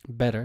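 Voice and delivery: "better" with a light d-like tap for the t; American light sound. Shown as a demonstration. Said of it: "which is kind of light sound".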